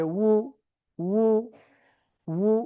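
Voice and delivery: উ as wu through rounded lips. Shown as a demonstration. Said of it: "ঠোঁট গোল করে বলতে হবে".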